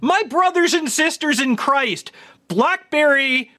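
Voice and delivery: preaching from the pulpit; biblical preacher. Retold or imitated. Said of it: "Biblical ass, is that what you're going for".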